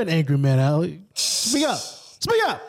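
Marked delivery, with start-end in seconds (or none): 1.1-1.8 high teasing prod; mock high speak up. Teasing, higher. 1.8-2.6 very high mock squeal; cheering the guest on, squeaky; high squeaky speak up. Much higher squeak.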